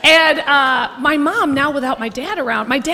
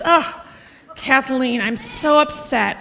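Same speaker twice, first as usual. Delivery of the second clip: upset mom; slower than usual. Retold or imitated. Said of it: "she goes".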